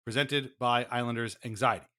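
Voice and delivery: stately, formal host intro; a hint of a solemn theatre host; mock theatre host. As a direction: play the grand television presenter.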